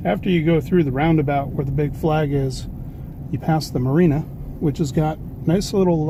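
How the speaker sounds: talking while bouncing over bumps; on a bumpy road. Real, not acted. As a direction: voice jolted by bumps. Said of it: "Oops, sorry about the bumps".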